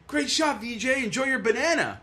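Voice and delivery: high-pitched heckle called out to a golfer; retold yell. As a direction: call it out high, as if across a fairway. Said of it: "I yell out".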